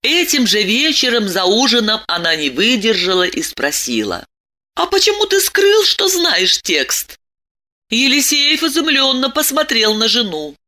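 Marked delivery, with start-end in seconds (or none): 4.8-7.2 высоко и с упрёком; спроси мужа с обидой; голос жены. A narrator's reading. Жена упрекает мужа за ужином. (женский голос с упрёком)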